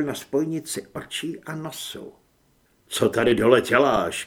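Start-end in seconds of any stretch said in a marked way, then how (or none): 2.9-4.2 loud, hard question; shouted demand. A narrator's reading. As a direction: shout it as an accusation. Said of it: "křikl jsem". (výhružné okřiknutí)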